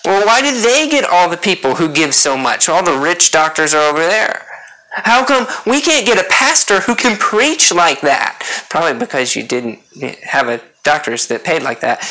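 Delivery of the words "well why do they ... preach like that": mock-irritated griping about a rival church; acted jealous complaint; irritated envy. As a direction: gripe enviously, pitch climbing on the question. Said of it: "We can get irritated when another church".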